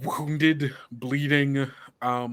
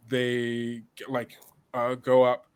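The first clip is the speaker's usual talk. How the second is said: normal talking voice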